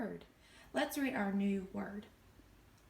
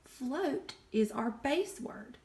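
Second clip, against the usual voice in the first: slow, clear teaching. Shown as a demonstration. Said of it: "separate our word from our suffix".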